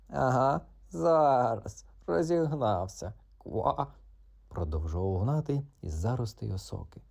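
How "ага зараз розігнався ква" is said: higher, teasing little frog voice; mock the cat from the reeds; cheeky frog. Frog teases cat from the reeds, cheeky and higher.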